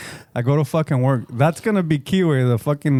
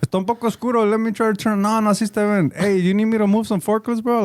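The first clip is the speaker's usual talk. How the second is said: higher, eager host voice, eager to please; overly hospitable host; 6 semitones higher than usual. Retold or imitated. To the cable guy, offering soda, eager high host. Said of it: "my hospitality kicks in".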